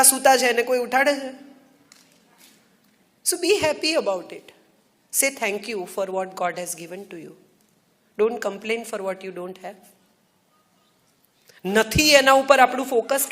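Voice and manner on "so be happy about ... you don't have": slow, soft and earnest; calm sincere counsel; sincere advice. Real, not acted. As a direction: ease into it gently, slowly.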